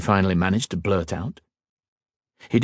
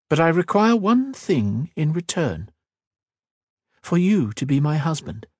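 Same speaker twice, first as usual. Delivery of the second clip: a hint of a proud queen, raised a little; regal queen, lightly voiced; 5 semitones higher than usual. Queen questioning the mage, lightly voiced regal. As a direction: speak as a wary, commanding queen. Queen states her price.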